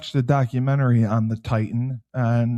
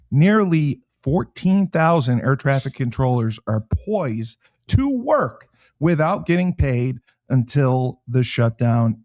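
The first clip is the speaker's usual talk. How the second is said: news read. Real, not acted. Host reading shutdown story to co-host, news read. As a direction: read it as breaking news, deliberately phrased. Reads breaking news item.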